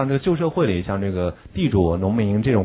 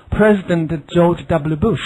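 slow, a touch higher, showy; slow example phrase; 6 semitones higher, much slower than usual. Shown as a demonstration. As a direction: present the name slowly as an example. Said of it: "这是什么呢".

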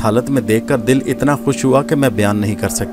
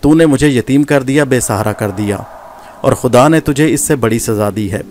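raised, bitter tirade against a traitor; furious accusation. Acted. Gohar accusing Nadir of killing her father, in a furious tirade. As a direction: pour out years of hatred at him. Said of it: "نفرت اور قہر کی بجلیاں برس رہی تھیں".

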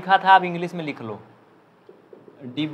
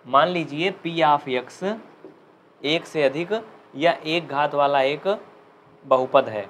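very slow, in short pieces with pauses between; slow classroom dictation in chunks; chunked slow dictation; slower than usual. Shown as a demonstration. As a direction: break it up and dictate phrase by phrase. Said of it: "आराम आराम से बोलूँगा".

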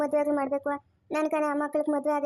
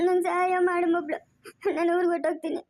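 crying; 2 semitones higher than usual. Acted. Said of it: "ಅಳ್ಬೇಡ ಸುಮ್ನೆ ಇರಮ್ಮ".

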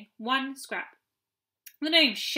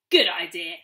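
put-on grinning boy; 8 semitones lower than usual. A narrator's reading. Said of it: "grinned Peter".

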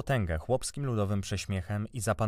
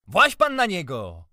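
high, loud, drawn-out yell; shouting; 8 semitones higher, 9 dB louder, slower than usual. A narrator's reading. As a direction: yell the order slowly and high. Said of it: "krzyknął miętus".

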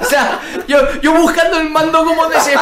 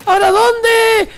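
high, slow frustrated yell; exasperated shout; 10 semitones higher, slower than usual. Real, not acted. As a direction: shout it out, lost and fed up. Frustrated gamer searching.

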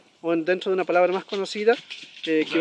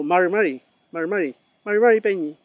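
rushed mari; 3 dB louder than usual. Shown as a demonstration. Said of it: "es una pronunciación rápida".

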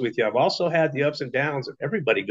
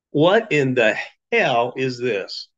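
stunned reaction; much slower than usual. Retold or imitated. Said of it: "this was me".

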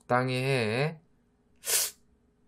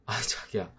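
usual speaking voice

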